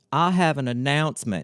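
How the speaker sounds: put-on whiny Southern accent. Retelling a store manager's announcement at a meeting: imitating Bill's whiny Southern accent. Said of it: "in that same whiny, Queenie Southern accented voice".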